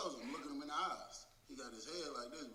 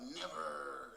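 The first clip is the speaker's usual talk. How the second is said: mild, drawn-out mock scream; retold defiant scream. Inmate taking off from approaching officers, retold mild defiant scream. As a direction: stretch it out like an imitated defiant holler. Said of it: "This motherfucker screamed out".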